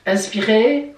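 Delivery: breathing instruction ending on a rise; breathe-in cue. Shown as a demonstration. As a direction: cue the in-breath, lifting the end of "inspirer". Guides a breathing exercise. (consigne d'inspiration, ton montant)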